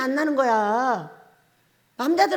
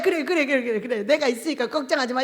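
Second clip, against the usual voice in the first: reassuring husband; 2 semitones lower than usual. Shown as a demonstration. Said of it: "이렇게 말해줘".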